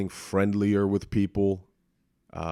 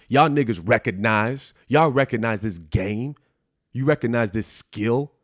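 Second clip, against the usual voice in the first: hype brag; 4 semitones higher, 5 dB louder than usual. Pretend. Hyped bragging to doubters.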